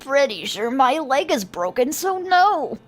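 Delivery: put-on voice, jumping high at the end; injured man. Injured man to passerby about his leg, put-on voice. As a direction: answer as a put-out casualty.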